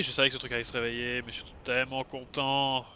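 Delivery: loud, gushing excitement; excited anime fan. Real, not acted. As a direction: gush about the boss loudly. Boss wakes, gamer overjoyed.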